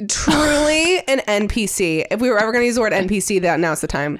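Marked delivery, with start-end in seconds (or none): 0.1-2.0 laughing. Real, not acted.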